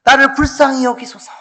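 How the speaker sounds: high-pitched, drawn plea for mercy; acted cry for mercy; pleading cry. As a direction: call out imploringly as the blind man. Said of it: "소리 소리 질렀던 거예요".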